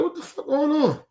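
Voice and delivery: retold shock, voice jumping up; mock-stunned demand; shocked disbelief. Retelling shock at her behavior.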